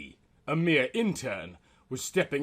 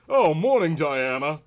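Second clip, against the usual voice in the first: a hint of a bright, louder man's greeting; Quart crying out; 4 semitones higher, 7 dB louder than usual. A narrator's reading. Flatmate's boyfriend greets Diana, lightly voiced cheerful call. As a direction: call out a cheery good morning. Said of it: "cried Quart".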